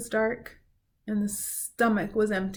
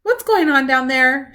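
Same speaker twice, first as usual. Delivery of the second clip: higher, louder call down; shouting squirrel; 5 semitones higher, 9 dB louder than usual. Acted. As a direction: yell down from the treetop. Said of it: "shouted a sleepy-eyed squirrel".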